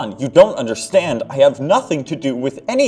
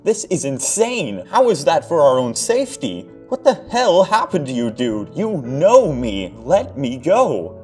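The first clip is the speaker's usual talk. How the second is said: much higher, louder, frightened and pleading; panicked protest; 10 semitones higher, 6 dB louder than usual. Acted. Mark begging John to release him, higher and loud. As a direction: plead with an old friend in terror. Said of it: "he cried".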